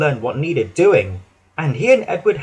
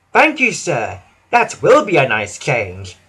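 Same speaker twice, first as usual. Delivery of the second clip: happily. Acted. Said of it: "said Edward happily".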